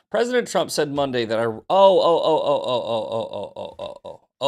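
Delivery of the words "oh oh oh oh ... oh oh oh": excited. Real, not acted. Excited at a good headline.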